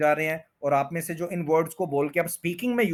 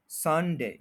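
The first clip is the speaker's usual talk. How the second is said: संडे with a drawn, stressed SUN; much slower than usual. Shown as a demonstration. Teacher modelling Sunday, संडे stressed on सन. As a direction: lean on सन in संडे, let डे fall. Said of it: "सन है उसके ऊपर अच्छा stress".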